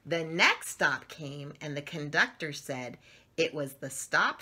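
slow, gentle storybook reading; lively picture-book narration; reading to children. A narrator's reading. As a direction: read it like bedtime story time for little ones.

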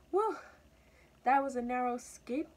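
high-pitched little mouse, relieved. A narrator's reading. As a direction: exclaim with great relief. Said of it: "thought the mouse at the bottom".

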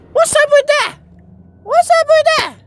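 squeaky high put-on voice, falling at the end; high silly voice, same fall each time; mock falsetto. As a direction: repeat it like a goofy cartoon catchphrase. Mock high-pitched catchphrase repeats.

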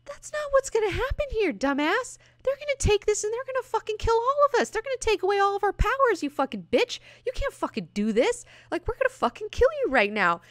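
hammed-up outrage at Moira; angry mutants. Destiny and Mystique telling Moira off, mock-furious. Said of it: "they're like".

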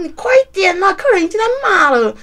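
imitating the boss pressing her to hurry. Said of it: "然后".

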